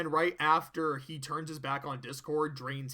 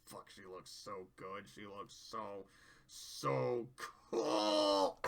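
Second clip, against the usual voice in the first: soft low murmur, almost to herself; awed hush; 8 semitones lower, 5 dB quieter, much slower than usual. Real, not acted. Admiring her favorite character's art, awed soft murmur. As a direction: breathe it out, smitten by the art.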